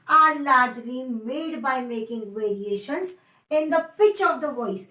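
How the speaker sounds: very slow, word by word dictation. Shown as a demonstration. Teacher dictating a definition to students, very slow. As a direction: spell out the definition slowly so students can write.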